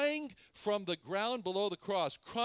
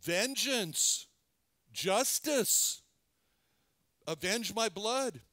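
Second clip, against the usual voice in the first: crying for vengeance; 3 semitones higher, 3 dB louder, much slower than usual. Acted. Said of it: "It was crying".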